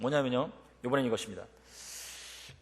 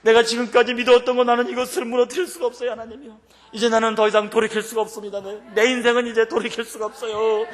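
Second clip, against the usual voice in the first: frenzied crying-out prayer; 8 semitones higher, 7 dB louder than usual. Shown as a demonstration. Preacher showing evening prayer in church, wild fervent cries. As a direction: pray like a madman at full force. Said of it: "미친놈처럼".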